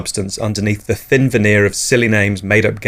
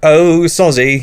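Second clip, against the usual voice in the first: high, slow feeble sorry; weak apology; 6 semitones higher, 4 dB louder, slower than usual. Acted. Listener apologising weakly to the neighbour, high and slow. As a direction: bleat it weakly. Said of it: "you blumber weakly".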